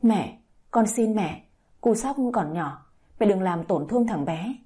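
ordinary delivery

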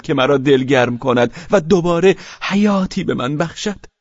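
baring a secret with feeling; confiding; moving, confiding. Acted. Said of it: "با لحنی مؤثر و انگار سری را فاش".

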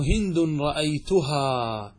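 هند رأيتها slowly, ending in a long "haa"; long final alif. Shown as a demonstration. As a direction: draw out the last aa of رأيتها. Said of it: "وإن كانت مفتوحة".

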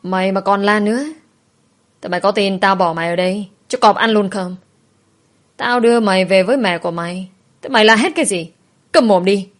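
angry kidnapper, building to a sharper order; scolding loudly. Acted. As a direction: intimidate a child into silence, understated. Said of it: "Ông ấy quát lớn".

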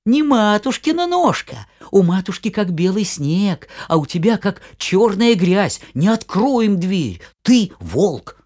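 put-on high, loud goat kids; kids shouting. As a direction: shout back, little goats. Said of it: "да как закричали".

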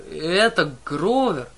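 loud, slow astonished "Это Гроувер"; surprised question. Acted. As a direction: stretch it out in disbelief. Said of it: "спросила Клариса".

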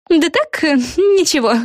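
high, dismissive hedging; high voice, shifty; evasive girl. A narrator's reading. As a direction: brush it off. Yana evades.

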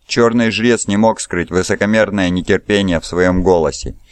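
ordinary delivery

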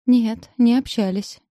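bleating. Acted. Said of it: "блею я".

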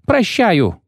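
howl. A narrator's reading. Terrified poet gives in to the executioner, howling. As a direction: howl it in panic. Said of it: "взвыл Лютик".

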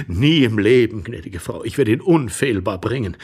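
earnest assurance. Acted. Intruder promising the lapdog at the door, earnest and emphatic. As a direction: vow it firmly and courteously. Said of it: "beteuerte Iwan Andrejewitsch".

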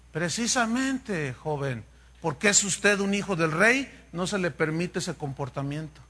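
put-on the old teacher gently puts the prince in his place; calm teacher reply. Old teacher answers calmly.

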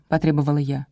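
plain reading voice

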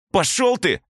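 very high squeaky yell; squeaky shout. A narrator's reading. Teen vandal shouting back as he runs, squeaky yell. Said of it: "пескляво крикнул он".

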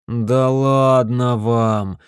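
very slow groaning protest.

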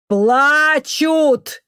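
loud and high, yelled over shrieking; high shout above the din; shouting over the noise. Acted. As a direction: cry it out over a wailing crowd. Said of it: "перекричал визг Антонов".

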